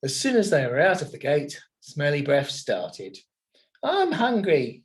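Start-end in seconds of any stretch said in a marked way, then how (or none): 3.8-4.8 drawn-out, higher hungry moan. Acted. Smells moans to his brother about being hungry, drawn-out moan. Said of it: "he moaned".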